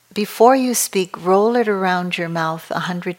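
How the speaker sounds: put-on light Filipino accent, mother's advice. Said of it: "in her Filipino accent".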